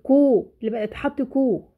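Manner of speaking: "كو" said as a drawn-out "koo"; letter with its vowel. Shown as a demonstration. Teacher shows a letter by its sound, "كو" held long. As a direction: hold the long oo on each "كو". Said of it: "يعني بحطه بحركته بصوته".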